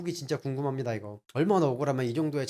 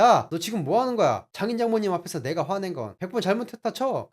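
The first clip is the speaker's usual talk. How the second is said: higher, louder angry tirade; furious outburst; 4 semitones higher, 3 dB louder than usual. Retold or imitated. Husband exploding at wife before her parents, furious. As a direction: unload years of resentment. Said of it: "고래고래 소리를 지르며 화를 냈습니다".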